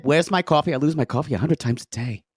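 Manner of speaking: lightly imitated Long Island accent; a hint of mock Long Island; Joanne impression. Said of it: "When she said".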